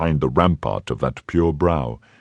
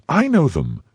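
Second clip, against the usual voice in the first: cried out; 10 semitones higher than usual. A narrator's reading. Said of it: "cried Milady".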